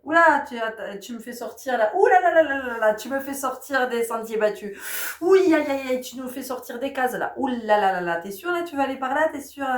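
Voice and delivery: a hammed-up startled parent resisting the teen's path; mock alarm. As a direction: ham up a flustered parent. Voicing startled parent reaction.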